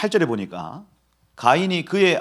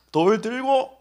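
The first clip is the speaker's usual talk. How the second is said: chuckles through the words; amused laughing aside; laughing while talking; 9 semitones higher, 4 dB louder, much slower than usual. Real, not acted. Laughing while telling stone.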